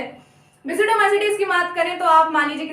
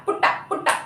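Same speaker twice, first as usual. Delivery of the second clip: पुट्टा, पुट्टा whispered twice like a secret; whispered mnemonic; 3 semitones higher, much faster than usual. Shown as a demonstration. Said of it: "trick है प्यूटा". (फुसफुसाकर पुट्टा)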